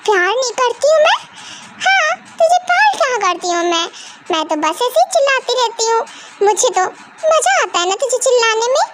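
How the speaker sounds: high, mock-hurt sarcasm; sarcastic mother. Mother answers her daughter with high sarcasm. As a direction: throw her words back at her.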